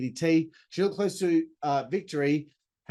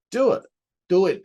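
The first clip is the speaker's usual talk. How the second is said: loud, higher shouted chant; excited urging; 4 semitones higher, 8 dB louder than usual. Real, not acted. Fan shouting at Cardona to go win the title, loud. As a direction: egg him on, shout it.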